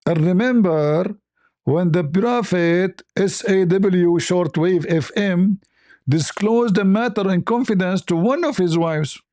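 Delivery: slow, solemn recitation of a verse; mock-reverent scripture reading. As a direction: read it out like holy text, very slowly. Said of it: "This is Allah talking".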